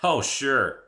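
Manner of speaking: dry sarcastic "oh, sure"; mock-agreeing sarcasm. A narrator's reading. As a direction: scoff at the idea. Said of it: "I said sarcastically".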